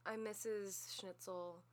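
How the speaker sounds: slow, deliberate mock introduction; mock teacher introduction. Teacher giving kindergartners her new German name, mock introduction. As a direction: introduce yourself slowly as a silly-named teacher. Playing the newly married teacher.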